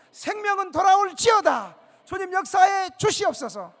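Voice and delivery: loud, high shouted prayer of command; preacher crying out a healing prayer. Retold or imitated. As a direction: command death to leave at full force. Pastor's prayer over dying man.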